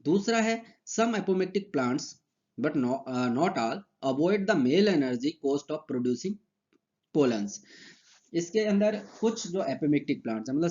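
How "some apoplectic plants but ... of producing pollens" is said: slow, deliberate dictation of textbook lines; dictation reading. Acted. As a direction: read each phrase out slowly so students can write. Slow dictation of English notes. (धीमी आवाज़ में notes लिखवाना)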